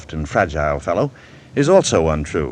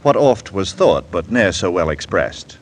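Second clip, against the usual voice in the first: recited verse; 3 dB louder than usual. Acted. Host opens the show quoting Pope, declaiming. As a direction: deliver the lines like a quoted poem. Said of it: "Alexander Pope was speaking about poetry".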